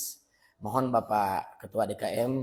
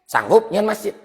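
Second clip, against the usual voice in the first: higher, louder voice of the kiai asking; teacher asking a struggling follower if he can build a mosque; kiai voiced; 10 semitones higher, 11 dB louder than usual. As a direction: play the old teacher putting the question. Kiai asks him, acted.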